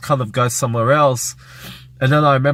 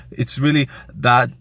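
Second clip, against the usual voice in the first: breathless; 3 semitones higher than usual. Retold or imitated. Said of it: "like that".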